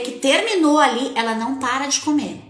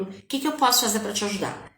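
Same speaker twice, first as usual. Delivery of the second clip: softer, a little quicker, tender; gentle soft offer; 3 semitones lower, 5 dB quieter, faster than usual. Shown as a demonstration. Mother to her crying daughter, soft and gentle. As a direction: ask gently, as to a crying child. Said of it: "quando ela tá chorando".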